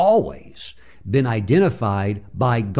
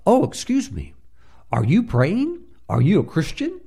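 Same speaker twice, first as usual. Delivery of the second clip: bright eager questions, pitched up high; 8 semitones higher than usual. Retold or imitated. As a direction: ask eagerly like a hopeful believer. Eager Christian bookkeeper asks.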